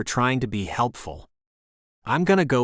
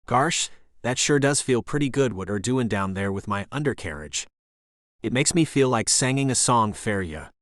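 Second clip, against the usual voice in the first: mock Southern accent. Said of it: "I did my best to impersonate the accent".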